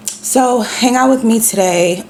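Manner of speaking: high, cracking voice with a frog in the throat. Real, not acted. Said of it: "Oh my God, I'm so sorry".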